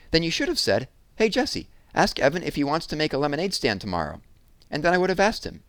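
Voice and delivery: high, loud exasperated lecture; frustrated girl. Acted. Jessie telling Megan what she should have said, high and loud. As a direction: spell it out for her.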